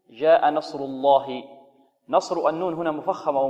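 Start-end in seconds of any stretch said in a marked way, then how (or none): 0.1-1.4 نصر الله with a thick, heavy lam. Shown as a demonstration. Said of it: "إذن هنا". (لام مغلظة في نصر الله)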